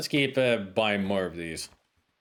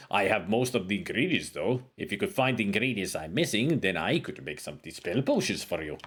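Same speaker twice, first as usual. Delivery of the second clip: a hint of a wise old wizard reading his lines; scholarly sage, lightly put on; lightly voiced game sage; 3 semitones lower than usual. Voices game character dialogue.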